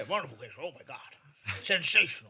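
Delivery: mock luvvie flattery rising to a loud finish; hammed-up gushing. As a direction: ham up empty praise, bigger each time. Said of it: "but he's like".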